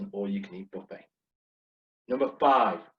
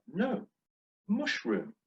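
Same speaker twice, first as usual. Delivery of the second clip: high-pitched, insistent "No, mushroom"; retold correction; 10 semitones higher, 3 dB quieter, slower than usual. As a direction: correct the server in a raised pitch. Correcting the server's mishearing.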